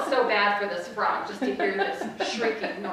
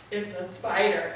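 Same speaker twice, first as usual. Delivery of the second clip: mock-grave, slightly lowered kid; dropped child voice; 3 semitones lower than usual. Girl revealing spider to mom, voice dropped. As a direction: imitate a child's solemn revelation. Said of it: "her voice dropped about ten octaves".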